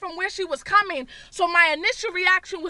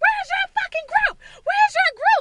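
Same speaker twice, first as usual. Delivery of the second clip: put-on frantic, very high-pitched shrill screaming; 12 semitones higher, 4 dB louder than usual. Retelling how she screamed at a girl who ran up from behind, retelling her own screaming. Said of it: "So I start screaming at the girl".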